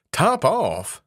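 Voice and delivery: the mouse can't believe such an odd name; astonished cry. Acted. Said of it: "cried the mouse".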